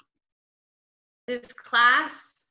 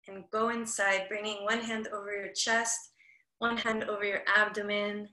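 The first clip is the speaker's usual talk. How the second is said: soft, measured meditation guidance; guided meditation; 2 semitones lower, 4 dB quieter than usual. Acted. Class leader invites everyone to close their eyes, guided meditation. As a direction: gently guide them to turn inside.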